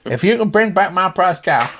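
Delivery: high, loud farmer voice; high-pitched country character; earnest Slim Pickens. Acted. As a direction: strike a bargain as a cowboy old-timer. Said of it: "If you imagine Slim Pickens".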